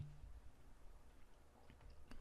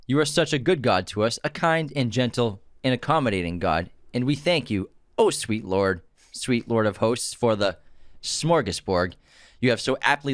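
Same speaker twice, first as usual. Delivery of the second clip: hammed-up dinner prayer; mock grace. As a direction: overblown preacher saying grace. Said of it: "I know the quote".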